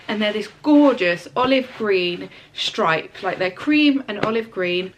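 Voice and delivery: stuffy, congested voice with hay fever. Real, not acted. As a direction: talk through a congested nose. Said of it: "sorry if I sound really congested".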